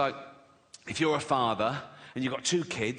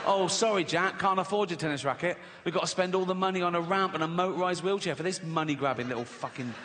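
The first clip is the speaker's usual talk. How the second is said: voicing the dad. Dad tells Jack bad news.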